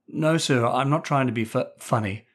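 a frightened pupil stammering before the headmaster; nervous stammer. Acted. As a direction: stammer out the denial. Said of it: "he stammered nervously".

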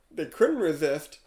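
slow, weighty verse reading; poem recitation. Acted. Host reading an AI poem to the co-host, slow recitation. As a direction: draw out each line of the rhyme. Reads the rhyming poem aloud.

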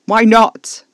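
loud, high, desperate cry; anguished shout. Acted. Alfie demanding an answer from Caspar, anguished shout. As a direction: scream the question at him.

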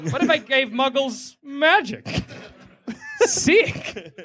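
a hint of a grand deity musing; God impression. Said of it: "that's a good God impression".

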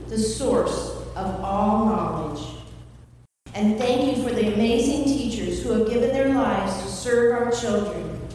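prayer. Acted. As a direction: pray over the teachers with reverence. Leads a prayer.

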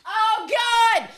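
overwhelmed outburst at a painful scene; anguished exclamation. Real, not acted.

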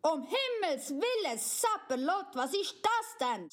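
startled king's mild mock yell; hammed-up alarmed father; mock shout. Papi woken by a crash, mild mock shout. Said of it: "schreit der Papi".

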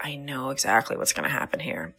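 low, settled, matter-of-fact; mock steady certainty. Business owner with lots of steadiness, calmly certain. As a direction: sound mildly bored by knowing it all. Acts out steadiness, contrasting the panic.

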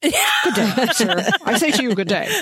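laughing, pompous good day; hammed-up otter meme. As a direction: huff it like an offended gentleman. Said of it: "that damn otter meme".

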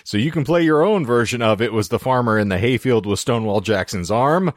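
upbeat sponsor ad voice; ad read. Pretend. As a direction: read it like a radio ad. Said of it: "Nice ad break".

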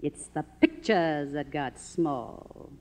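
slow, haughty and grand; grand disdain. Acted. Faded star defends her greatness, slow and lofty. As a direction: look down on the whole industry. Norma's proud famous retort.

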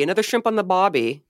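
put-on light Australian accent, dropped R in bobby. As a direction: say it with a hint of an Aussie accent. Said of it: "some kind of Australian word".

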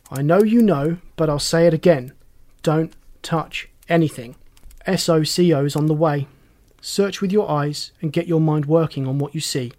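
lightly voiced inspector, firm; brief the juniors with a touch of authority; inspector giving orders. Inspector instructs his assistants.

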